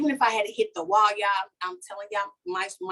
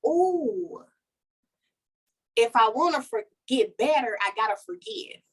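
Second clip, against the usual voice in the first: sudden realization. Retold or imitated. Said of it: "it hit me like a light bulb went off".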